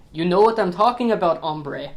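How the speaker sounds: lightly put-on, off-the-cuff Mexican outlaw accent; hammy Mexican bandit accent done badly on purpose. Mocking the film's Spanish girl in a bad Mexican accent. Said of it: "really shitty, uh, Spanish or Mexican accent".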